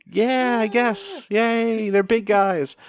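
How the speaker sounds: high, half-hearted crowd cheer; Bluff City crowd. Acted. Crowd answering the wrestler's pitch, high half-hearted cheer. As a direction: draw out a lukewarm high yay. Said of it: "And Bluff City's like".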